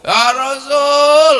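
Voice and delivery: slow, loud wailing cry. Acted. Pilgrim weeping to the Prophet, slow loud wail. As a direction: wail his name in remorse. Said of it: "orang ini nangis".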